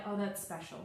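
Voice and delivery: a hushed, slowed-down aha moment; slow wonder. Pretend. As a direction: savor the discovery quietly. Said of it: "you immediately know".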